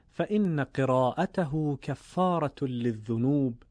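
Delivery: measured Arabic recitation of the saying; recited Arabic hadith. Acted. Teacher quoting the hadith to listeners, in reverent recitation. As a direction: recite the Prophet's words with reverence.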